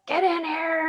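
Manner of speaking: high-pitched call to the dogs; retold yell at dogs.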